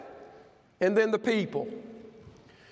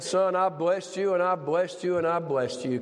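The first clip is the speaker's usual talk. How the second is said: lower-pitched voice of a patient father; God's reply; 4 semitones lower than usual. Retold or imitated. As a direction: lightly voice God reminding his son. Preacher voices God answering gently.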